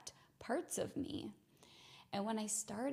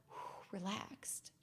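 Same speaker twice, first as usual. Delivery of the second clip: relieved exhale; 8 dB quieter, much slower than usual. Acted. Body calming down, exhaling.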